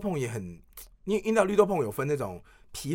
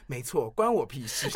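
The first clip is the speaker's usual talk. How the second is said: laughing parody line; 4 semitones lower, 3 dB quieter, slower than usual. Retold or imitated. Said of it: "紧接着说".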